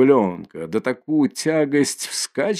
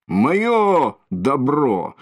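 Моё добро dragged out very slowly, raised and heavy; heavy drawn-out roar; 4 semitones higher, much slower than usual. Acted. Mikolka swinging the shaft, roaring Моё добро slowly. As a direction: stretch "Моё добро" into a slow, weighty roar. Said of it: "кричит Миколка".

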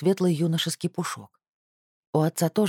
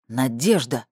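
reproachful; slower than usual. Acted. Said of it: "укоризненно сказал я".

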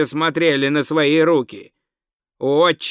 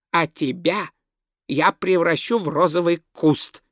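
ominous pronouncement. Acted. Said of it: "изрёк он".

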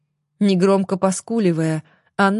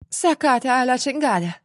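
higher-pitched, understated angry curse; hissed curse; 5 semitones higher than usual. A narrator's reading. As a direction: curse in Spanish with a touch of venom. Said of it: "шипела бедняжка". (сдержанно-злое шипение)

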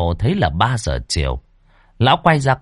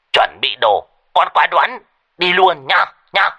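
put-on higher, shrill, urgent old voice; shrill old man on the phone; 6 semitones higher, faster than usual. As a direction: squawk the panic down the line. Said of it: "vang lên choe choé".

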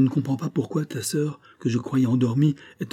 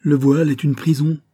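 angry outburst; 6 semitones higher, 7 dB louder than usual. Retold or imitated. Daughter argues with mother.

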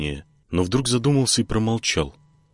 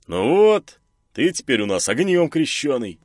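cheerful; 7 semitones higher, 3 dB louder than usual. Acted. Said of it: "улыбнулся Мирон".

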